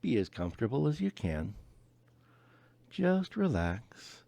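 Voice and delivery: upbeat, bright doctor patter; friendly clinician voice. Acted. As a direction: play the cheerful transformation specialist. Transformation specialist role.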